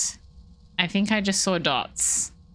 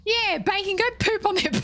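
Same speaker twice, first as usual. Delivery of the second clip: laughing, whispered aside; giggly whisper; 13 semitones higher than usual. Real, not acted. Playful aside to bacon.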